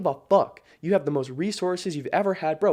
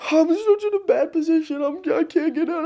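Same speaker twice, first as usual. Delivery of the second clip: much higher, whining mockery; mock whine; 13 semitones higher than usual. Mocking people stuck in a bad position, high whine. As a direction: whimper it like a crybaby.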